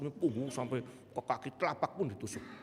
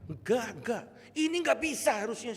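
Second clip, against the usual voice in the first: higher, louder, can't believe it happened; amazed disbelief; 10 semitones higher, 6 dB louder than usual. Retold or imitated. Pastor tells the congregation the healing cannot be, higher in amazed disbelief. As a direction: protest that this should be impossible. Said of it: "saya bilang".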